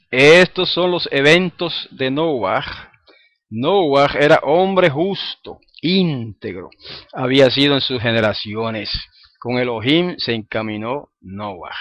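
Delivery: slow, deliberate reading of the verse; scripture reading. Acted. Teacher reading Genesis to the class, slow and solemn. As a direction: read the verse with weight, slowly. Reads verse nine aloud.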